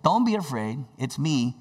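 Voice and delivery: calm, assuring. Retold or imitated. Jesus to disciples in the storm, calm. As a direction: reassure them, keeping it low. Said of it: "a calm, assuring voice".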